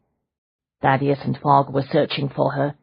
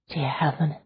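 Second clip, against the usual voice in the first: breathless whispered gasp; 7 dB quieter than usual. Acted. Leona realizes who the prisoner is, whispering. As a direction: barely breathe it out. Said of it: "Leona whispered".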